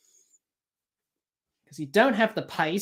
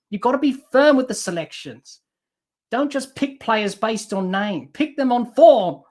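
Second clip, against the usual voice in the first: frustrated scolding; 2 semitones higher, 4 dB louder than usual. Real, not acted. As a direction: tell the selector off, punching the last words. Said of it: "I'm just a little bit frustrated".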